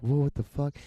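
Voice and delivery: like a sudden jolt; a loud high startled whoa. Retold or imitated. Sudden shock in retelling.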